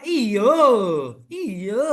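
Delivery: iyo said the Sumatran way, the first one loud; Sumatran-style iyo; Sumatran accent. Shown as a demonstration. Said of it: "kalau orang Sumatera".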